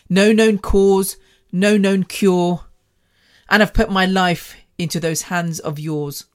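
measured poetry recital with deliberate pauses; spoken word poem. Acted. Poet telling of being chronically ill, spoken word recital. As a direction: deliver each line separately, as a spoken word piece.

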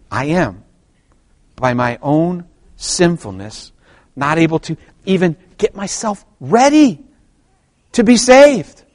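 measured phrases with pauses, climbing high at the end; slow emphatic delivery. Shown as a demonstration. Preacher spells out our sinfulness to the church, slowly emphatic. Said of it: "slow it down for you and say it with emphasis".

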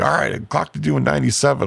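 high squeaky cop impression; mock cop. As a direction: play the stunned cop lightly. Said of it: "he's like".

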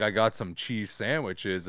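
slow, mock American accent; imitated American accent. British actor boasting of ordinary food, slow mock American accent. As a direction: draw it out like a Brit faking American. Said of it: "And they're like".

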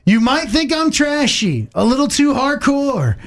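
slow, dramatic poetry reading; poetic reading. Acted. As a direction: recite it like a fireside poem. Reads lyrics as poetry.

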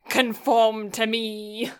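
slow, grand mock command; mock regal. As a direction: play the self-important queen. Mock tyrant demand.

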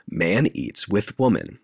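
slow, measured stage announcement; announcer. Retold or imitated. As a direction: lightly imitate someone announcing an act. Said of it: "Olivia Colman announces".

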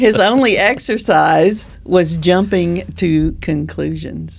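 slow punchline, deadpan; slow joke delivery. Acted. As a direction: land the pun slowly. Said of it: "Let me finish my joke".

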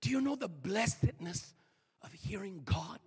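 low, soft and weighty; hushed solemn preaching. Real, not acted. Preacher asking the congregation about hearing God, hushed and solemn. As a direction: bring it right down, low and earnest.

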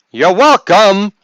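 high, loud, drawn-out flourish; hammed-up pleased-with-yourself sign-off; mock self-congratulation. Mock self-congratulation after gift plug.

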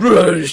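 short, loud mock roar; imitated fighting roar. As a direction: roar it like grabbing someone. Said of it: "he's like".

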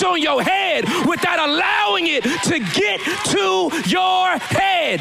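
driving, shouted sermon climax; preaching at full force. Real, not acted. Preacher charging the congregation to steward the oil, full-force rising shout.

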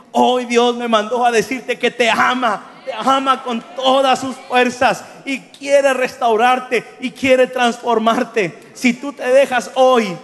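loud, slow, stretched-out preaching of God's love; fervent preaching. Acted. Preacher telling the street boy God loves him, booming and slow. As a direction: proclaim it with full force, slowly.

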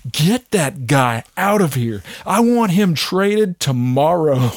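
hammed-up Kobe ordering a trade; ruthless Kobe. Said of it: "how ruthless Kobe was".

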